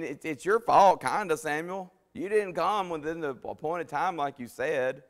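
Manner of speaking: high, loud, rushing excuses; a guilty king talking fast to shift blame; Saul pleading and blaming. Acted.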